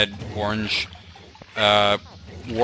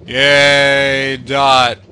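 dull mock cheer; 3 semitones higher, 8 dB louder than usual. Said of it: "in this really dull sounding voice".

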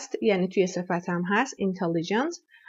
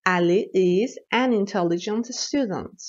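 slow model sentence; slower than usual. Shown as a demonstration. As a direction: read slowly, an stressed. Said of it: "An استفاده کنم".

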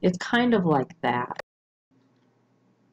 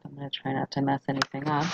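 muttered aside; 5 dB quieter, faster than usual. Real, not acted. Muttered aside while writing.

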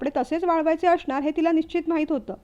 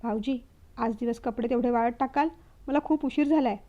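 pleading request; 3 semitones lower, 4 dB quieter than usual. Acted. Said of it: "विनंती करत".

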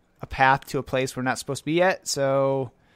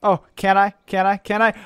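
excited; 6 semitones higher, 6 dB louder than usual. Real, not acted. Attempting a jump in game.

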